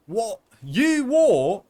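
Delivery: high, loud "You what?"; shocked yelp. Real, not acted. Streamer shocked by something chat wrote, high loud yelp. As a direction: squeal it out in disbelief.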